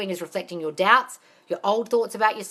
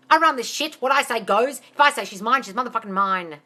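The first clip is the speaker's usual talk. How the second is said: bold affirmation; 3 semitones higher, 4 dB louder than usual. Shown as a demonstration. Coach telling listeners how to talk to their mind, loud and sure. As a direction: declare it like you run the place. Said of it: "Tell your mind".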